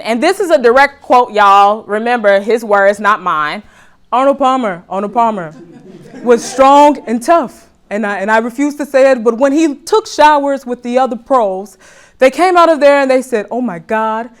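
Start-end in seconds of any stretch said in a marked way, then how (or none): 4.1-14.3 a light take on Trump's rambling voice; a hint of Trump, rambling; Trump impression. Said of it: "I'm getting better with my Trump accent".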